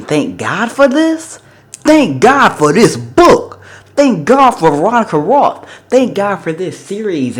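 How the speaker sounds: high, slow, loud gushing thanks like a gospel shout; ecstatic praise. Real, not acted. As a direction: sing out your gratitude, drawn out and soaring.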